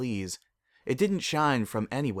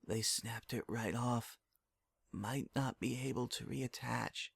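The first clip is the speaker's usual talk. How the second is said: muted doctor voice; 2 semitones higher, 12 dB quieter than usual. Acted. Overheard doctors in dream.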